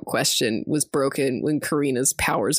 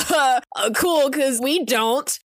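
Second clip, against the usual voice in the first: mock awkward refusal; 8 semitones higher, slower than usual. Friends mock refusing to surrender.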